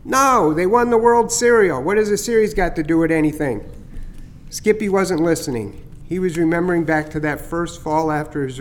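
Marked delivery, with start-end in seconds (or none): 0.0-3.6 higher, chirpy bird voice, pleased with his prank; teasing starling. Acted. Starling Chatter teasing Skippy about the scare, higher and chirpy. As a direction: gloat a little over the fake heron scare.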